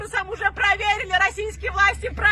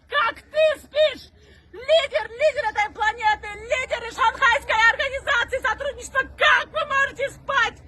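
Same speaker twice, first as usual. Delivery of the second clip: crying out; 2 semitones higher than usual. Real, not acted. Accuses leaders, voice breaking.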